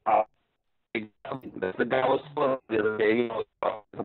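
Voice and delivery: choppy breaking-up phone line; bad connection cutting out; radio breaking up. Real, not acted. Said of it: "you're breaking up pretty bad".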